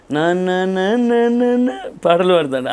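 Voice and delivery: imitating little daughter. Daughter voiced singing naanna.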